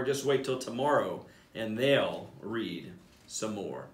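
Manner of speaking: put-on lively storybook reading for kids; animated bedtime-story narrator; read-aloud narration. A narrator's reading. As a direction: read it like a picture book to a class. Principal reads picture book aloud.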